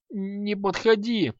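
high, slow whimpering plea; babbling in fear. A narrator's reading. Merchant babbles in terror while sinking to floor. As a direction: plead weakly, collapsing. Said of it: "лепетал тот".

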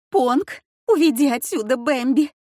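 wife shrieking at the servant to take the beast away. A narrator's reading. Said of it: "вскричала она".

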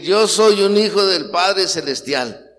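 loud, slow, emphatic confession; proud declaration. Shown as a demonstration. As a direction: declare it with pride and conviction.

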